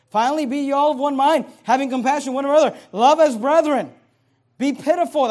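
loud, forceful verse reading; booming pulpit scripture; preaching. Acted. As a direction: proclaim the verse to the congregation.

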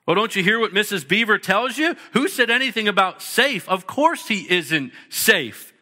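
lightly voiced beaver, a touch indignant, slowing on "Of course he isn't safe"; a hint of a fussy beaver setting things straight; insistent Mr Beaver. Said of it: "said Mister Beaver".

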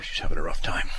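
hushed whisper; whispered aside. Real, not acted. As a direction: drop to a whisper. Aside about his wife.

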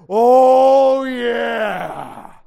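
a loud gloating cry of triumph; loud triumphant whoop. Acted. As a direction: howl it out like finally getting even. Gloating over long-awaited payback.

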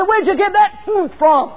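high, loud, slow outraged shout; berserk announcer. Retold or imitated. Interviewer challenging his guest on live radio, berserk shouting. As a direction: demand it at full pitch, beside yourself. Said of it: "He went berserk".

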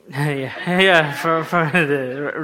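talking through a laugh; amused, stumbling agreement with laughter; real chuckle. Real, not acted. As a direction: laugh breaking into the words. Preacher chuckles during aside about accent.

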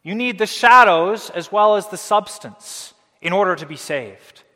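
high, loud, insistent urging; mock persuading Judaizer. Preacher voicing the Judaizers urging the Colossians, high and pleading. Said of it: "they were trying to persuade them".

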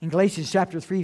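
normal talking voice

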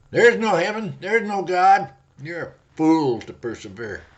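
loud, high booming denial; thundering devil. Acted. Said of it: "cries with a thundering voice".

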